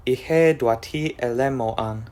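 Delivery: ihe duati elemoan sounded out with care; careful demo of ihe duati elemoan; conlang word demo. Shown as a demonstration. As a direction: present ihe duati elemoan as the finished form. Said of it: "with the result being".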